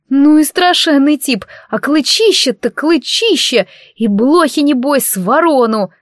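a silly blonde's gushing high squeal, lightly played; глупая блондинка. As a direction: play the dumb blonde, overdoing the awe. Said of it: "мне даже не пришлось в роли вживаться". (изображает глупую блондинку, чуть выше и громче)

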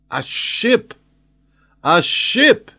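high, sharp cry of a lookout; excited cry. A narrator's reading. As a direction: cry out the sighting, voice leaping up. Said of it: "he cried".

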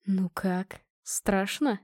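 low, soft teasing whisper; ominous whisper. A narrator's reading. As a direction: hush it like a spooky secret. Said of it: "зловещим шёпотом спросил муж".

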